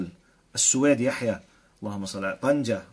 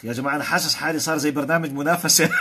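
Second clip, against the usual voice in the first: laughing excitedly; 4 semitones higher, 5 dB louder than usual. Real, not acted. Excited by flood of comments.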